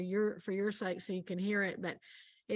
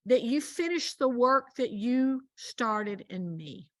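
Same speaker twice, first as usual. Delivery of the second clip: prayer; 3 semitones higher than usual. Retold or imitated. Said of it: "And I'm like".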